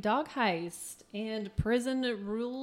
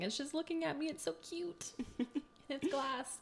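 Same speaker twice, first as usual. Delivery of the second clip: mock awe; 7 semitones higher than usual. Adoring the wine in glass.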